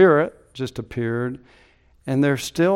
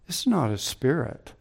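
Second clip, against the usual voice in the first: softer, settling down, stress on "not"; quiet restatement; 6 dB quieter than usual. Acted. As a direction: let "not" land gently after the big build. Quiet restatement after the climax.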